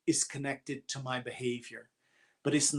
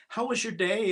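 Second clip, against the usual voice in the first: higher-pitched cheerful greeting; happy; 6 semitones higher than usual. Retold or imitated. Friend on a call asks about the day, happy. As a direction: imitate someone all happy, asking lightly. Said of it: "she's all happy".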